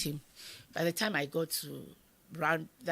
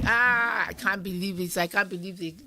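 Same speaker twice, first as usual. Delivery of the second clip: grief-stricken lament; 3 semitones higher, 7 dB louder than usual. Retold or imitated. Mother lamenting husband's death.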